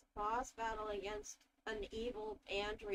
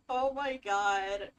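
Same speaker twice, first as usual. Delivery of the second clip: excited; 4 semitones lower, 8 dB louder, slower than usual. Real, not acted. Reacting to a character's expression.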